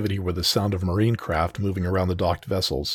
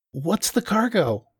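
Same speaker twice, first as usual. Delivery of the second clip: high, slow unfamiliar voice; stranger's voice; 12 semitones higher, slower than usual. Acted. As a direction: call out from the crowd. Unseen stranger in crowd asks.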